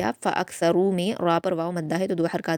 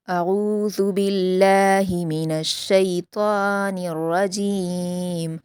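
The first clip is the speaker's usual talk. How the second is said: slow, drawn-out Quranic recitation; measured Quran recitation with long vowels; tajweed recitation; much slower than usual. Shown as a demonstration. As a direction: chant it slowly, each letter from its proper place. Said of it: "आज की class में हम सूरतुल फ़ज्र को मा तजवीद पढ़ते हैं".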